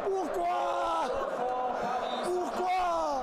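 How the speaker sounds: high wailing why; anguished cry. Real, not acted. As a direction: cry out in despair.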